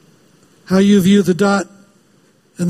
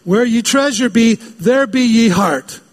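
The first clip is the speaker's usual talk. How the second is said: higher, slow hammed-up pirate; 4 semitones higher than usual. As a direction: ham up the pirate line slowly. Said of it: "talks like a pirate".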